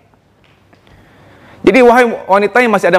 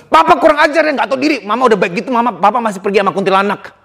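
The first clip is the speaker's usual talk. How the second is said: mock angry outburst; 3 semitones higher than usual. Acted outburst at father.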